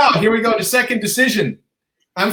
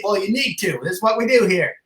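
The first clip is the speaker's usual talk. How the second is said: lightly imitated Kiwi accent; a hint of a pushy Kiwi, accent a bit off; rough New Zealand accent; 2 semitones higher than usual. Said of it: "my accent was off".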